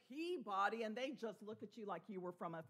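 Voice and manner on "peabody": "Peabody" with a full "body"; outsider's spelled-out "Peabody"; mispronounced town name. Retold or imitated. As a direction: say "Peabody" as pea body, both parts clear. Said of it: "trip over it and say".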